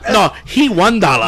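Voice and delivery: mock Chinese accent. Acts out buyer haggling over kitten.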